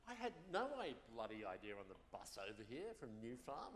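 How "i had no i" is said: breathy laugh. Real, not acted. Host laughs at audience joke.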